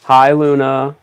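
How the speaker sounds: ordinary talk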